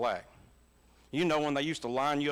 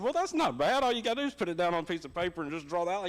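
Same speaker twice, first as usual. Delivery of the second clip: mock breezy dad; 4 semitones higher, faster than usual. Dad reassuring son about drawing.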